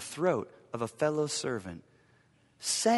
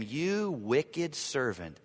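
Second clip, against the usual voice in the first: grieved master; much slower than usual. Acted. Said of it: "said to him".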